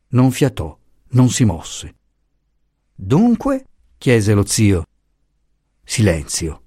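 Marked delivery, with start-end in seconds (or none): 2.9-3.7 impatient question. A narrator's reading. Uncle presses for the news.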